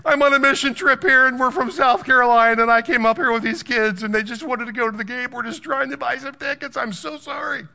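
mock tearful begging, high and whiny. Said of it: "So then I use my whiny voice".

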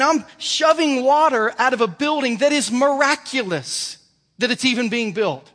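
God shouting the question back at him; God scolding. Retold or imitated. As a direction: preach God's rebuke with full force. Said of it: "He said".

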